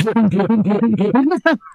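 quick exaggerated puffs of breath; comic hyperventilating; rapid mock breathing. Shown as a demonstration. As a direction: imitate deep breathing done wrong, far too fast. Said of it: "he thinks deep breathing is".

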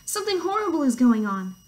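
acted urgent hen; alarmed cry. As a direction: announce trouble in storybook alarm. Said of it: "cried Hen".

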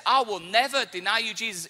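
heartfelt, emphatic promise; wholehearted vow. Acted. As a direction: vow it with all your heart. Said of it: "meant it with all of his heart".

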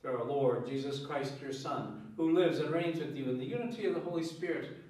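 measured, solemn prayer voice; liturgical prayer. Acted. Priest prays the collect.

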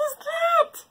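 high, surprised question; puzzled. Acted. Animal woken in the night, puzzled. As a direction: wonder what that noise is.

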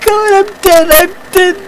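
very high, loud shriek as the game kills you; panicked scream. Real, not acted. Killed by tank in game.

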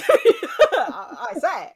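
1950s announcer. Pretend. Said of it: "nineteen fifties announcers".

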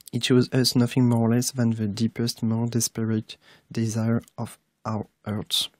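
careful English accent, slow at the end; quoting Dumbledore in English with a learner's accent; English quote reading. Shown as a demonstration. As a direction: read the Dumbledore line in English, slowly. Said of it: "mon accent n'est pas encore terrible".

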